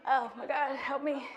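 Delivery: mock plea through a laugh; begging for help, laughing. Real, not acted. Embarrassed plea.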